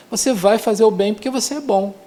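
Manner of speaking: ordinary delivery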